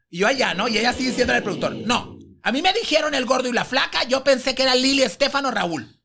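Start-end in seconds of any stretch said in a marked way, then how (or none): 1.7-5.9 higher-pitched mock disdain, rising into outrage; scornful. Diva complaining to the producer about her interviewer, scornful. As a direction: imitate a diva's contemptuous protest. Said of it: "Así de despectiva".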